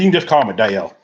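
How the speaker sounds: lightly imitated country accent, Dale stretched; attempted country accent. Host quotes Dale Junior introducing himself, attempted country accent. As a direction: have a half-hearted go at a country accent. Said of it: "I'm trying to do the country accent".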